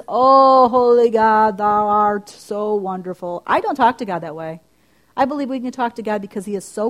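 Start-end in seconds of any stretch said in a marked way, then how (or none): 0.1-3.4 hammed-up loud pious address, slowing at the end; mock formal prayer. Shown as a demonstration. Woman mocking stiff churchy prayer, loud and slow. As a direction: pretend lofty King James praying. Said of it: "It isn't this".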